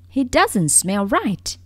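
loud, slow alarmed exclamation; exclaiming. Acted. White rabbit exclaims after sniffing, slow and loud. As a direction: recoil and exclaim it. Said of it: "he exclaimed".

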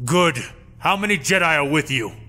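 muffled behind a plastic mask; through a breathing mask. Acted. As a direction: speak through a rebreather mask. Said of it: "through the plastic of his Bacta breather".

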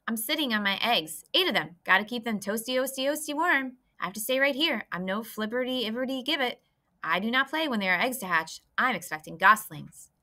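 a busy goose too proud of her eggs to play; fussy mother goose. Acted.

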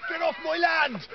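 shouting. Pretend. Shouting at people on his land.

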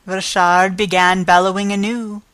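ordinary delivery, nothing marked

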